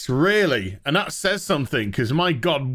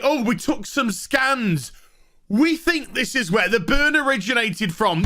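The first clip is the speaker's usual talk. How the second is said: mock crew report; 6 semitones higher than usual. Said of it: "they're just like".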